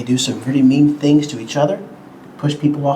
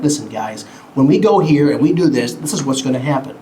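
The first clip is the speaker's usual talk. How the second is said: direct grown-up tone; faster than usual. Shown as a demonstration. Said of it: "I'll be more direct".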